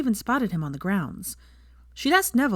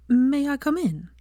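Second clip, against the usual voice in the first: put-on higher, slow, polite young woman; 8 semitones higher, 3 dB louder, slower than usual. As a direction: ask gently as a nervous girl. Hermione voiced, nervous visit.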